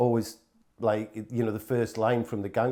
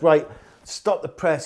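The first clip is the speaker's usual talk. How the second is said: higher, louder, slow proclamation; mock announcement; 6 semitones higher, 7 dB louder, slower than usual. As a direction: proclaim it like a hammed-up editor stopping the presses. The speaker announcing new title.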